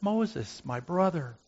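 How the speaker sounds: softly, tenderly addressing him; tender address to a stubborn brother; gentle. Acted. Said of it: "So gently I suggest".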